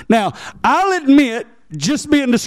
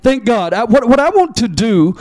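usual speaking voice

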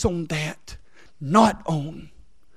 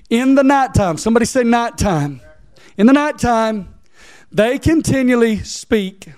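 raised-pitch sermon delivery with long-held words; fervent preaching; 5 semitones higher, 3 dB louder than usual. Real, not acted. Preacher stressing the night to his congregation, fervent preaching.

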